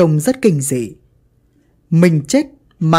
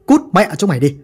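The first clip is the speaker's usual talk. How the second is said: cursing mob; faster than usual. Acted. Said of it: "tiếng chửi vang lên".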